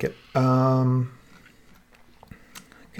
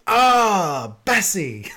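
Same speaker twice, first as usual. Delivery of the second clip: imitating Robert; 7 semitones higher, 4 dB louder, much slower than usual. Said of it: "he goes".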